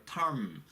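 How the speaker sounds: term with r-colored vowel; pronunciation demo of term. Shown as a demonstration. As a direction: curl the tongue on term. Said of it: "이렇게 R 발음이 나요".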